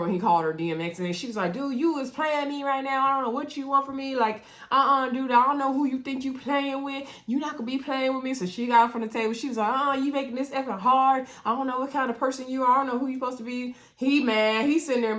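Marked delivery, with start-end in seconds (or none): 1.5-8.3 higher-pitched, lightly acted warning; mock fed-up. Woman retold warning her date off, mock fed-up. 9.7-13.7 higher, fast retold complaint; mock exasperated. Woman retold leaving the table on her date, mock exasperated.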